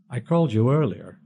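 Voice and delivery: deep voice. A narrator's reading. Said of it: "John's deep voice".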